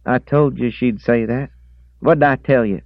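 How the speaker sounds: high, loud pleading; pleading old man. A narrator's reading. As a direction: plead your case. Reese voiced.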